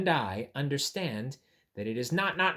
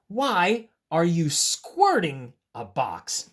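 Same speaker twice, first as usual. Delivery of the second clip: slow questioning; 4 dB louder, slower than usual. Shown as a demonstration.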